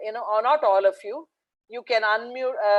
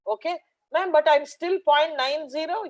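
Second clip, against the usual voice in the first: put-on child's voice; 5 semitones higher than usual. Boy answers teacher.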